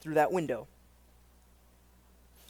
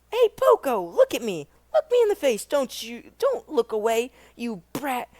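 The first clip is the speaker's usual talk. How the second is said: higher, louder bully taunt; menacing bully; 4 semitones higher, 4 dB louder than usual. Shown as a demonstration. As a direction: bark it at the kid like a street bully. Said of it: "repeated line".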